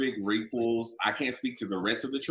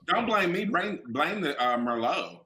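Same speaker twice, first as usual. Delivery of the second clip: playful protest; 7 semitones higher than usual. Real, not acted. Playful protest, tipsy banter.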